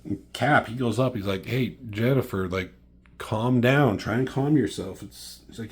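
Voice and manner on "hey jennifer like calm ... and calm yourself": acted-out plea to settle down, pitched up; raised-voice mock pleading; urging calm. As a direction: imitate someone talking an angry friend down. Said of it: "They're trying to tell her to calm down".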